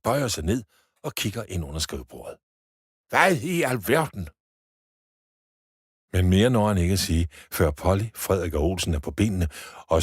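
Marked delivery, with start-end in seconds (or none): 3.1-4.3 astonished. Acted. Director peers under desk.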